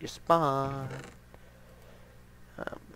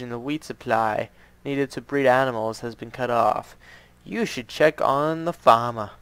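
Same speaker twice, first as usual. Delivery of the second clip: butcher voice; 7 dB louder than usual. Acted. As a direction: greet the adventurer like a hearty shopkeeper. Reads the butcher NPC's lines.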